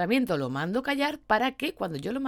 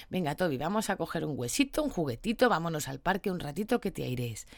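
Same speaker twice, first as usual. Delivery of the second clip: soft coaxing; 3 semitones lower, 4 dB quieter than usual. Retold or imitated. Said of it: "Le hablarías suave".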